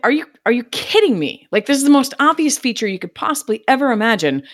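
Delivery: mock outraged customer rant; mock indignant rant. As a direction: whine like a fed-up customer. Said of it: "I've probably been like".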